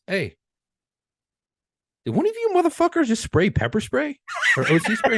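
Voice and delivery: high, loud yelling sergeant; mock furious sergeant shouting; angry supervisor. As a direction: bellow it up high like a furious boss. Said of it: "and he goes".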